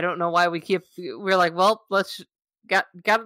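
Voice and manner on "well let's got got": rising, eager folksy mom; Midwest mom voice. Acted. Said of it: "I gotta stop 'cause I can't now".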